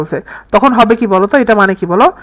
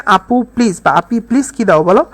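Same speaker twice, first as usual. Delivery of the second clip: calm. Shown as a demonstration. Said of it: "শান্তভাবে বলতেছে".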